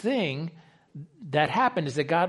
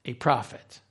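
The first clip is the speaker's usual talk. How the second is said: a prophet said low, let it drop; stress on merely a prophet; 4 semitones lower, 3 dB quieter than usual. Shown as a demonstration. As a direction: belittle it: just a prophet.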